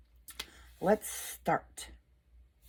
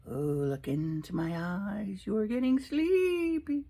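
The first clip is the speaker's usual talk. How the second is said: slow, lilting mock hypnotist; slower than usual. Teasing viewers as a hypnotist, slow hypnotic drone. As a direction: drone it slowly like a stage hypnotist.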